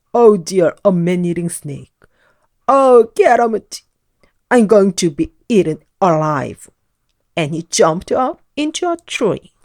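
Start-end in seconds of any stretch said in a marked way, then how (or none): 0.1-0.8 loud, fretful oh dear; panicky oh dear. A narrator's reading. Jolly frets at the snake. 0.8-6.7 frantic panic. A narrator's reading. Jolly fears a snake.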